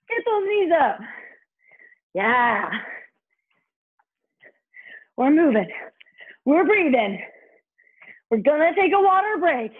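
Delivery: aerobics instructor. Real, not acted. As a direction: pump the class up. Energetic workout coaching over music.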